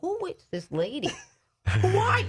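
shocked at a stranger's words. Retold or imitated. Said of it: "And I'm thinking".

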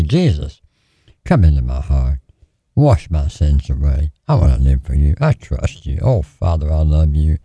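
low, earnest sinner's prayer; sincere prayer. Pretend. Preacher showing listeners how to invite Jesus in, low sincere prayer. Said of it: "All you have to do is say".

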